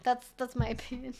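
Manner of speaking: repeating it, cracking up mid-line; laughing. Real, not acted. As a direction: laugh through your own punchline.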